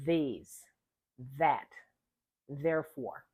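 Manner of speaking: These, that, therefore with a clear voiced th; careful voiced th at the start; exaggerated th practice. Shown as a demonstration. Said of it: "Here they are in the initial position".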